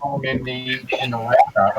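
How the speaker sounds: underwater microphone. Real, not acted. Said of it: "You sound like your microphone's underwater".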